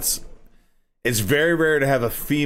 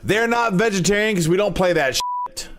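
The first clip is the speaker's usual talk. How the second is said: higher, punchier radio announcer; 8 semitones higher than usual. Pretend. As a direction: sell it like a cheesy ad. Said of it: "radio voice".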